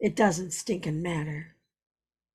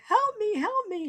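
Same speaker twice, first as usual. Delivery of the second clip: retold plea. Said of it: "And I'm like".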